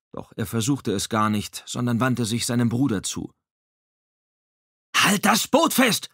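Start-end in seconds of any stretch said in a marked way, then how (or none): 5.0-6.1 loud, high, slow barked command; barking. A narrator's reading. Langevin orders Dominique to hold the boat, loud barked command. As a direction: bark the order at him. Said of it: "bellte Langevin".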